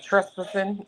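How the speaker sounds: "Trespassing" in a light mock-British accent; funny British accent. Shown as a demonstration. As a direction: say "Trespassing" with a playful British lilt. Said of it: "I said that really funny".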